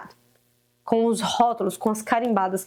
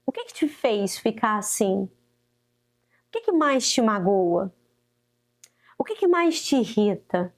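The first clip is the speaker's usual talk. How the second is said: gentle questions; slower than usual. Shown as a demonstration. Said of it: "Anota essas perguntas".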